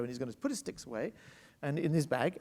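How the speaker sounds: ordinary talk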